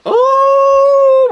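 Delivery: high, loud burst of glee; excited oh. Real, not acted. Vlogger to viewers, announcing a new purchase, a high thrilled oh. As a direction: blurt out a thrilled oh.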